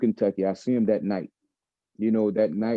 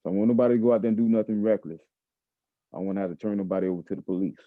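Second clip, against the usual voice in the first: fast, clipped retelling of the warning; quick repeat; faster than usual. Retold or imitated. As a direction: fire it back quickly, like repeating it word for word. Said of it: "I asked him again".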